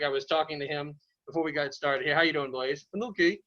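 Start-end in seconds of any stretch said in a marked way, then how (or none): 2.9-3.4 slightly raised puppet-dog voice; puppet fire dog. Pretend. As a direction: answer lightly as the puppet dog. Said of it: "This is Blaze the Fire Dog".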